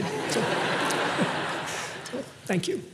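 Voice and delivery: breaks into a high, soft laugh mid-sentence; real laugh at the crowd's response. Real, not acted. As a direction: caught off guard and laughing, then thanks them softly. Laughs at audience reaction.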